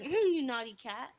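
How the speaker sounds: teary little scolding whine; whiny child. Retold or imitated. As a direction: whimper it like a hurt kid. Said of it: "She's like".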